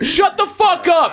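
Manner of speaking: high, slow mocking whine. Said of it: "You're like".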